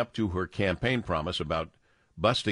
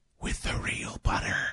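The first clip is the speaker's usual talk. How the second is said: hushed, very high stage whisper. Quoting a CEO about movie-theater popcorn: whispering like a US president. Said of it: "I'm whispering like a president".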